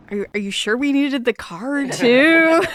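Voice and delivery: slow, rising disbelief; doubtful question. Acted. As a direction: question it doubtfully, stretching out the last words. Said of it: "turns to Jackie and is like".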